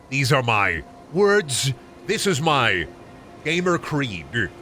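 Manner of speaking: measured, mock-earnest declaration; solemn mock creed. Streamer recites his caveman gamer creed, mock-solemn. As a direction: recite it like a personal oath, drawing out key words.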